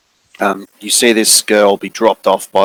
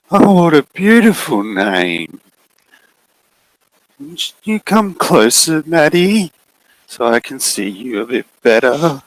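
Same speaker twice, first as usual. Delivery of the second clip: slow, sugary higher voice; sinister coaxing; 6 semitones higher than usual. Acted. Looming figure luring Maddie closer, slow and sugary. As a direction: draw her closer sweetly.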